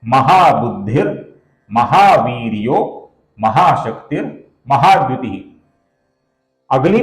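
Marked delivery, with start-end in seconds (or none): 0.0-5.4 slow, careful recitation of the joined line. Shown as a demonstration. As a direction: recite the joined names slowly. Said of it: "तो ये पंक्ति बनी है दोस्तों". (धीमे श्लोक पाठ)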